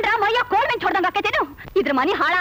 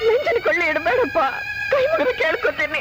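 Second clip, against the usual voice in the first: tearful plea; 3 semitones lower than usual. Acted. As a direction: beg your son with folded hands, weeping. Mother begs son not to split home. (ಅಳುತ್ತಾ ಬೇಡಿಕೊಳ್ಳುವುದು)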